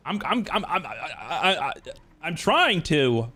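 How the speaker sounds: stammering, halting and very slow; nervous stutter. Real, not acted. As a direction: trip over the words, slowly. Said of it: "Don't overthink it or stutter".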